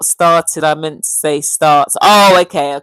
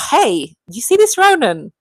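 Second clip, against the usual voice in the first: higher-pitched hey in an African-style accent; African-accented exclamation; 7 semitones higher than usual. Real, not acted. Streamer calls out Ronan, slipping into African accent. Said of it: "Sometimes I do break out in some sort of".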